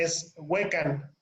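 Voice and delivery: slow Huecan, weight on HUE; careful teacher demo of Huecan; stress on first syllable. Shown as a demonstration. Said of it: "acuérdense del acento".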